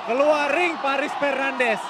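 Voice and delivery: fighting game announcer. Acted. Play-by-play of knockdown.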